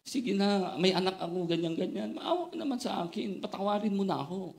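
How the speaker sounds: high, pleading mock plea for mercy; imitated begging. Retelling how the scared man begged the taxi driver, high mock pleading. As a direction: beg like a man facing arrest, a bit hammed up. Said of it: "Nagmamakaawa na".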